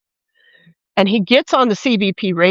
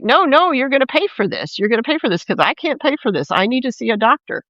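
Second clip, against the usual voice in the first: higher-pitched mock protest; imitating an insistent refusal, pitched up at the start; acted protest; 5 semitones higher, faster than usual. Victim protesting to agents pushing him, imitated protest.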